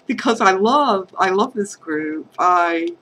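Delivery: fighting back tears while saying thanks; getting emotional. Real, not acted. To the craft group, voice welling up with emotion. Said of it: "God, I'm getting all emotional".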